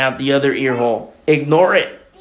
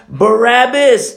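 higher, louder, slow call of the name; crowd shout; 8 semitones higher, 5 dB louder, slower than usual. Acted. Preacher voicing the crowd demanding Barabbas, loud shout. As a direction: shout it like the mob. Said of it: "Exclamation point".

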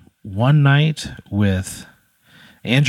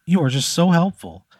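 lightly voiced witch, pitched up; 7 semitones higher than usual. The witch greeting Pat under the overpass, high and relieved.

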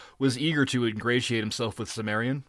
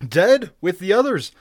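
high, raised, urgent pirate's account; agitated survivor, pitched up; alarmed report; 6 semitones higher, 5 dB louder than usual. A narrator's reading. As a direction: pour out the horror to the captain. Pirate reports the slaughter to Conan.

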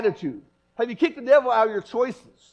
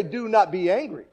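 "not" hit harder; stress on not; 3 dB louder than usual. Shown as a demonstration. Preacher contrasts the verse it doesn't say, stress on "not". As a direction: lean on "not" in "Do not be angry". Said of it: "He doesn't say that".

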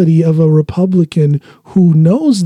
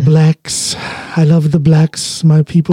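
mock Trump voice; 2 semitones lower than usual. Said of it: "mocking Trump phrase".

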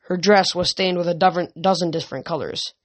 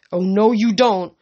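growled; 3 semitones higher, 5 dB louder than usual. Acted. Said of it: "Piper growled".

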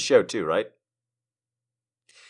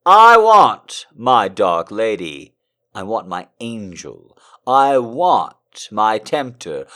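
a steadier, less shouted declamation; calmer dramatic reading; 2 semitones higher, 12 dB louder, slower than usual. Acted. Streamer retrying the love letter, steadier dramatic reading. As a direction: read it with steady passion. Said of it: "Gotta reset".

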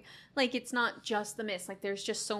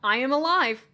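heroic voice; 6 dB louder than usual. Retold or imitated. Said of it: "he was like".

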